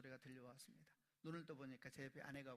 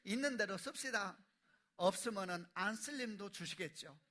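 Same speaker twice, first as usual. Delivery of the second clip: mock declaration; 4 semitones higher, 9 dB louder than usual. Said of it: "남편에게 선포하더래요".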